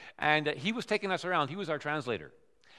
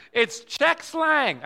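very slow, loud and higher reveal; slow grave reveal; 8 semitones higher, 8 dB louder, much slower than usual. Retold or imitated. Friend revealing the phrase is slang, slow and loud. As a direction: draw it out for the punchline. Repeated for laughs.

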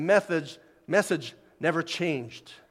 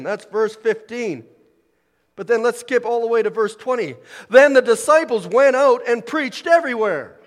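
loud, high scripture proclamation; ringing pulpit delivery, hammering key phrases; full-force preaching; 7 semitones higher, 9 dB louder than usual. Real, not acted. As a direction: declare the commission to the whole congregation.

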